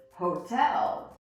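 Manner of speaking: hotel with a crisp, aspirated T; clear T. Shown as a demonstration. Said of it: "So we hear our T".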